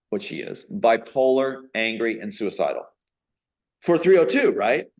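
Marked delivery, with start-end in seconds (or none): 0.7-4.5 imitated cold dictation, rising at the end. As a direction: coldly dictate the words, as retold. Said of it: "in a very cold voice".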